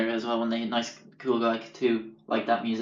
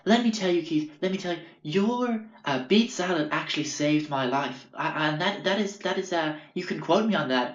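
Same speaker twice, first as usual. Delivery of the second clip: much higher mock hippie voice; hippie customer; 5 semitones higher than usual. Raw-food hippie praising the beet salad to the waiter, in a high mock voice. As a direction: gush it like an earnest hippie.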